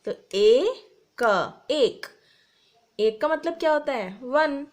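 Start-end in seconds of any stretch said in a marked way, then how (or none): 0.1-2.1 teacher blending letters aloud; sounding out. Shown as a demonstration. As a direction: stress ए, then क, blend into एक. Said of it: "ए से एड़ी".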